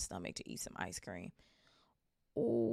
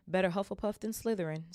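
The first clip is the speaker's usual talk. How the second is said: dark; 3 semitones higher than usual. Acted. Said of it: "said Hagrid darkly".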